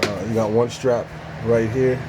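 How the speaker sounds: talking while lying under a truck; lying under a car. Real, not acted. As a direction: speak from flat on your back. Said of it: "so I'm under the truck now".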